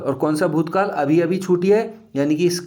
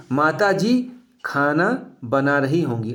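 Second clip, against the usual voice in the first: slow, deliberate example read; slow example sentence. Shown as a demonstration. Teacher reading an example to students, slowly. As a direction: say it slowly so students catch the doubt. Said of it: "ध्यान से सुनेंगे".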